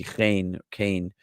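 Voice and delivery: chen or kane with a long A, Ashkenazi style; Ashkenazic A vowel. Shown as a demonstration. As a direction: stretch kane into an ay sound. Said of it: "For an Ashkenazi like me".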